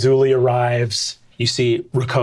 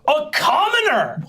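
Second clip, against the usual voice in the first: high shrill cry of disgust; high wailing appalled sister; outraged sister. Acted. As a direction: recoil in horror at a commoner.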